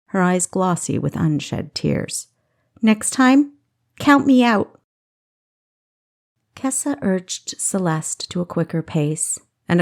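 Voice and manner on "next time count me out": louder and higher, hurt and fierce; fierce outburst. A narrator's reading. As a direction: snap it at her sister, holding back tears. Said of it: "She looked fiercely at her sister".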